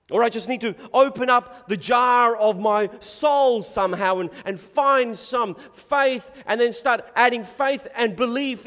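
emphatic, incredulous preaching; impassioned preaching. Acted. Preacher challenging word of faith charlatans' teaching, impassioned. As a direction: preach it forcefully with rhetorical disbelief.

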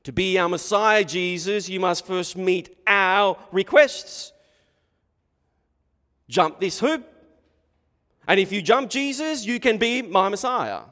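loud, high, imperious demands; demanding Pharisee. Acted. Pharisees setting hoops for Jesus to jump, loud imperious demand. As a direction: set the terms loudly, pitch climbing.

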